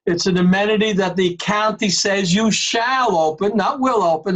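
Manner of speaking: shall stressed firmly, will set against it. Real, not acted. Chair quoting the county rule, stressing shall. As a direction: lean on the word shall, then not will. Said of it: "That's why I emphasize that word shall".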